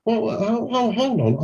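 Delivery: a prospect suddenly changing their mind, caught off guard; surprised call-back. Retold or imitated. Prospect calls back before hang-up.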